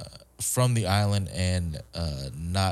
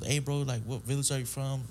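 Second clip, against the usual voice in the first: Chamorro guy voice; 6 semitones higher, 5 dB quieter than usual. Retold or imitated. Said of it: "the Chamorro version was".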